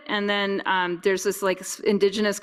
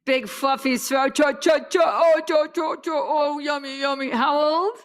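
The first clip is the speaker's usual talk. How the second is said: higher, playful cooing and cha-cha noises; puppy talk; 6 semitones higher than usual. Real, not acted. Calling the puppy over, high playful cooing. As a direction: fuss over the fluffy dog.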